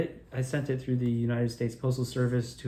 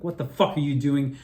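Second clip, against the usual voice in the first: mock yelling; 4 dB louder than usual. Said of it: "I had started screaming at them".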